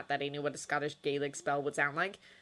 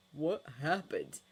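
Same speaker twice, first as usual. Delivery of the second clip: puzzled; slower than usual. Acted. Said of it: "genuinely puzzled".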